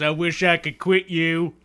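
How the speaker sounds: Brokeback quote. Pretend. Tyrion to dragons, movie quote.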